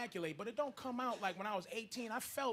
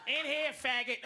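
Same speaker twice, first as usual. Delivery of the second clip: annoyed egg; 5 semitones higher, 6 dB louder than usual. Acted. Angry egg voiced.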